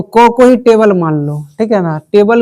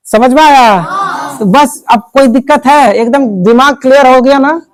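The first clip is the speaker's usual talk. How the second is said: raised, louder teacher's voice pitched to the whole room; rousing class drill; 4 semitones higher, 3 dB louder than usual. Real, not acted. Teacher checks the class knows the rule, loud drilling prompts. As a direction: call out each prompt for the class to finish.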